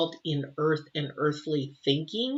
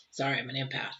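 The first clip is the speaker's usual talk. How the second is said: 1 near tears; 5 semitones lower, 7 dB quieter, faster than usual. Real, not acted. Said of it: "I'll start crying".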